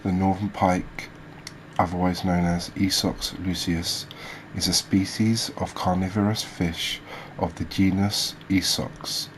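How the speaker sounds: measured read-out of fish facts; reading aloud. Real, not acted. Host reading species facts to viewers, informative read-aloud. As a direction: read it out like a documentary script.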